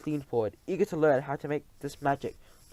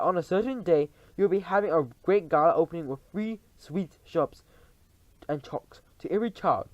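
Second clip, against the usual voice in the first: witch voice; 3 semitones higher, 5 dB louder than usual. Acted. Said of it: "cried out".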